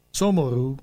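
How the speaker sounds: a caretaker sighs in sympathy at the jobless writer, gently; sympathetic. A narrator's reading. Caretaker commiserating with the broke writer, mildly sympathetic. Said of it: "bólogatott együttérzően".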